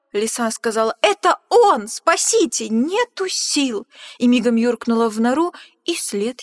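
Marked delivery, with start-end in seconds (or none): 1.0-3.9 loud, high shrieks, then slow gasp; panicked cry. Acted. Fox shrieking in terror at the Gruffalo. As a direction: scream and run out of breath.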